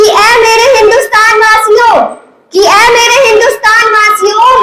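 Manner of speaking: patriotic declamation. Acted. Dying soldier's last request to his countrymen, declaimed as patriotic verse. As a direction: address the countrymen in ringing, measured verse.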